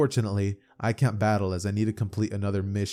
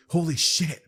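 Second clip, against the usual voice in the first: shocked exclamation; 6 semitones higher, 4 dB louder than usual. Acted. Mirko shocked at the attack.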